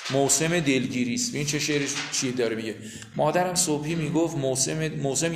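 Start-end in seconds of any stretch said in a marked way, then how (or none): 0.1-1.3 poem recitation. Acted.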